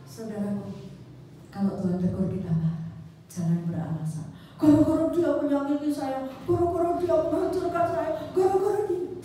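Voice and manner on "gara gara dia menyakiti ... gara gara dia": resentful excuses. Acted. Voicing angry excuses to God.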